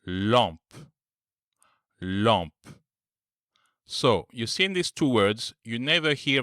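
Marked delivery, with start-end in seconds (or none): 0.1-2.5 lampe with a nasal am; French word. Shown as a demonstration. Teacher modelling the nasal sound in lampe. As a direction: lampe said twice with a nasal vowel. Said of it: "for example".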